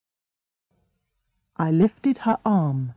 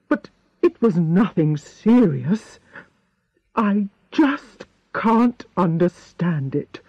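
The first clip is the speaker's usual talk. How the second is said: lightly voiced worried old doctor; mildly puzzled doctor's voice; Doctor Spencer, puzzled.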